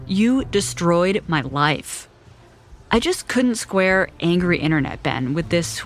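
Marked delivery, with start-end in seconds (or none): 0.1-2.1 each word weighted, slow and deliberate; emphatic slow quote. Retold or imitated. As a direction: read it like all caps, slowly. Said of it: "he wrote in all caps".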